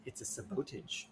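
"sabotage" said as suh-BOH-tij; quiet, deliberately misstressed "sabotage", long O in the middle; wrong-syllable stress. Pretend. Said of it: "put the emphasis in the wrong syllable".

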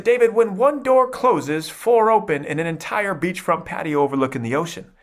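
high-pitched mom delivering an inspirational saying; imitated motivational mom. Mom to son in the recliner, high motivational voice. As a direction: voice Mom's pep talk, pitched well up. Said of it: "my mom would always say these motivational".

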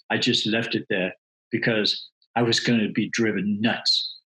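light New York accent impression. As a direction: quote the New York guy in his accent. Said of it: "in his New York accent and style".

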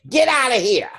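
high, loud yell to leave; shouting. Retold or imitated. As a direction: shout them out of the room. Retold woman telling someone off.

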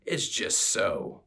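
lightly voiced orc, rough and blunt. Playing Gogron the orc to his sister, lightly voiced orc scoff. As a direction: play the orc brother scoffing. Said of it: "in my best orc accent".

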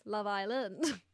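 drawn-out Australian Love Island; Australian accent. Shown as a demonstration. Podcaster comparing accents for her co-host, Australian accent. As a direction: put on Australian, stretching Island. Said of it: "And Australian".

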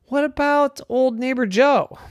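high, bright suggestion; a kid with an idea; hopeful little unicorn. Acted. Rowan suggests.

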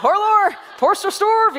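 high, loud "Hello" turned into "horlor"; or language. Shown as a demonstration. Joking with the worship team, playful high "Hello, Porster Storv" in OR sounds. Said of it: "this language called the or language".

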